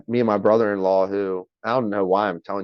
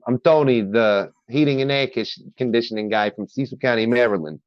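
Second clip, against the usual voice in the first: Tony. Shown as a demonstration. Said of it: "that persona and that, that whole vibe".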